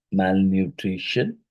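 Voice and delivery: "malnutrition" slowly, its syllables distinct. Shown as a demonstration. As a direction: draw out each syllable of "malnutrition". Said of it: "is a polysyllabic".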